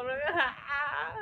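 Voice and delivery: acted sobbing wail; mock crying. Showing how she cried again hugging, mock sobbing. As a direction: fake a bawling cry. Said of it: "Ganun ulit ako".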